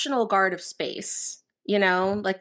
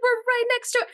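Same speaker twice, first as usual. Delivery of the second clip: mock crew voice; 13 semitones higher than usual. Mocking crew in movie scene.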